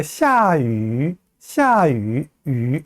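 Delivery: 샤유 with a long pure ü at the end; pronunciation demo. Shown as a demonstration. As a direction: draw out 유 as one rounded vowel, no glide. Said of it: "유 하나만 좀 연습을 해볼게요".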